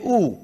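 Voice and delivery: ऊ said as a close oo, the mistaken version; wrong oo vowel. Shown as a demonstration. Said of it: "कुछ लोग इसको ऊ समझते हैं".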